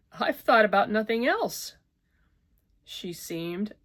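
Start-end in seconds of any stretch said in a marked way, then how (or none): 0.1-1.8 shout. A narrator's reading. Distraught woman shouting at her lover. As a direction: shout him down. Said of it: "she shouted".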